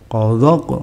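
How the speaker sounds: "Qadaq" with heavy, thick q and a bounced ending. Shown as a demonstration. Teacher shows the thick letter, heavy bounced "Qadaq". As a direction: say "Qadaq" thick, echoing the last q.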